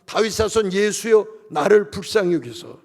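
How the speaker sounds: imitated cry with stretched words; retold crying out. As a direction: call out for mercy, half-shouted. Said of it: "소리를 지릅니다".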